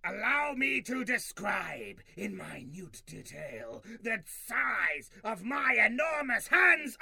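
booming alien overlord voice; a pompous tyrant proclaiming; dragon voice. Acted. Overlord declaiming.

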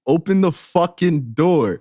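drawn-out, slow and firm; slow stern demand. Retold or imitated. Girlfriend at the door, slow stern mock demand. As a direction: lay out each word, fed up. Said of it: "She like".

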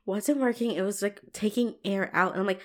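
ordinary talk, nothing marked

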